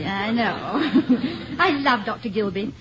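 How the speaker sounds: talking through a laugh. Real, not acted. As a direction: laugh while you answer. The speaker laughing at his remark.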